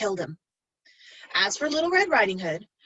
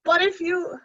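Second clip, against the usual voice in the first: fake granny voice; 8 semitones higher, 3 dB louder than usual. Wolf voice, cut off.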